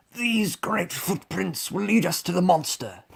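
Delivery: high, animated lion voice; put-on storybook lion voice; lion character. A narrator's reading. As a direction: announce it as the leading lion. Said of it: "he said".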